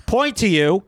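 high, fast showman voice; grand proclamation to the room; mock announcer. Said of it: "clap my hands and go".

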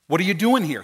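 pointed question meant as a point; an accusation dressed up as a question; mad accusation. Acted. Mad God making a point to Elijah, accusing. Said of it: "He's not asking an honest question".

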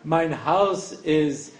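slow, laughing phrasebook recital; mock-solemn Yiddish drill, very slow; slow textbook reading. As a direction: read it like a stiff language course, chuckling. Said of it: "I had this sense in it".

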